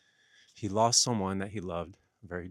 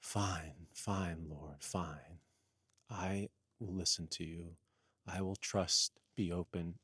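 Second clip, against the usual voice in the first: resigned surrender; 4 semitones lower, 7 dB quieter than usual. Acted.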